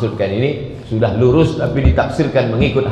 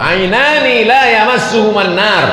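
high ringing Arabic quote; high-pitched sermon citation; preacher's recitation; 10 semitones higher, 4 dB louder than usual. Real, not acted.

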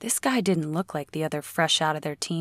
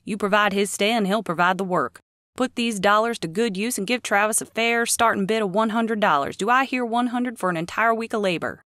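lively auction caller pitching bids; auctioneer; 5 semitones higher, 4 dB louder than usual. Acted. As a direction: sell it like a county auctioneer.

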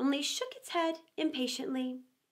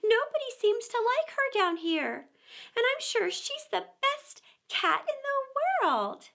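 tearful; 7 semitones higher than usual. Acted. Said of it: "began to cry again".

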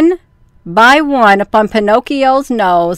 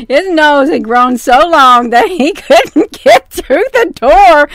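louder and higher, giggling as she reads; laughing; 4 semitones higher, 3 dB louder than usual. Real, not acted. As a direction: read it as the laughter rises. Reading while laughing.

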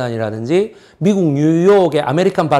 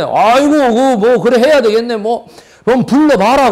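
lightly imitating a rich Gyeongsang man, a bit louder; mock Gyeongsang dialect; 5 semitones higher, 3 dB louder than usual. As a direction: Gyeongsang accent, mildly hammed-up. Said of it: "경상도 사람이 모양이죠".

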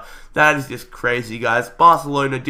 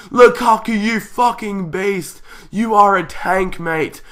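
elated praise; 6 semitones higher, slower than usual. Real, not acted. Praising striker after winner.

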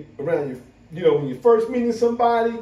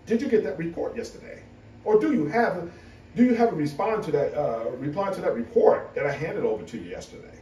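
proper office voice; 3 semitones lower, 4 dB quieter than usual. Retold or imitated. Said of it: "I just asked".

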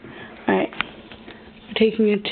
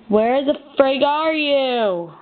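calling out; 3 semitones higher, much slower than usual. Real, not acted. Calling out for hidden bee.

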